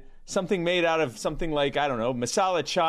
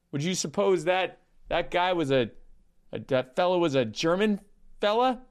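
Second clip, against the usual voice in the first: deadpan anti-joke storyteller, understated; Norm Macdonald impression. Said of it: "cease and desist from the Norm Macdonald estate".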